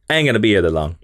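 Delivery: low, nonchalant villain; Purple Man. Acted. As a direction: toss it off in a dropped, unworried voice. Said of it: "I love your Purple Man voice".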